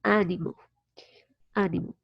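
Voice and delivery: "animal" stressed on a wide-open first a; open first vowel. Shown as a demonstration. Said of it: "open your mouth a lot".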